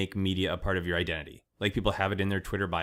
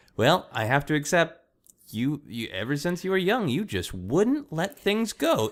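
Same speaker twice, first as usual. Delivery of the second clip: mock motherly voice, higher, prideful and disapproving; 8 semitones higher than usual. Retelling what a mother says on phone calls, imitating her proud, judging tone. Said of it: "with that tone of like".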